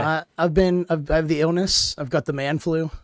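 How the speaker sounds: hoarse, sick-sounding voice; raspy voice. Real, not acted. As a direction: rasp through a man-flu throat. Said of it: "your raspy voice".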